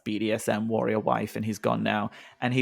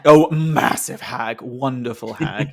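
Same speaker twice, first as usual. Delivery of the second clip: slow, louder delighted praise; gushing; 7 dB louder, slower than usual. Real, not acted. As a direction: savour each word with delight.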